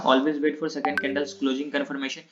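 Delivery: very slow, word-by-word reading of the rule. Shown as a demonstration. Teacher dictates the second rule to students, very slow. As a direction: dictate it slowly for the class to note down. Teacher reads trading rules aloud.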